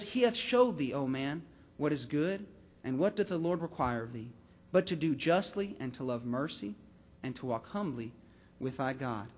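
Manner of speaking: low, soft, measured verse; hushed, deliberate Bible reading; solemn scripture reading. Acted. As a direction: read it reverently, phrase by phrase. Reads the verse aloud.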